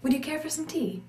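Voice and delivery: high "Would you care for some tea?" with American vowels; same line, American sounds; American pronunciation of the tea line; American accent. Shown as a demonstration. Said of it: "In an American pronunciation of the vowels".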